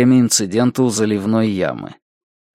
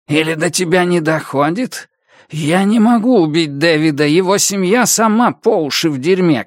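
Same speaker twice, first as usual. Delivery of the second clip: higher, bitter threatening character; ожесточённый коротышка; 4 semitones higher than usual. Acted. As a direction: vent the grievance, then threaten. (с горечью и угрозой, чуть выше)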